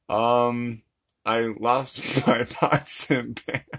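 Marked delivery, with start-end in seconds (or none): 1.2-3.6 attempted Chinese accent. Shown as a demonstration. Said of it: "can you try a Chinese accent?".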